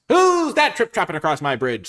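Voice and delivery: loud, high, slow troll challenge; mean old troll. Acted. Troll challenging a goat on the bridge, loud hammed-up menace. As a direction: boom it out as a storybook troll. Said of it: "said the troll".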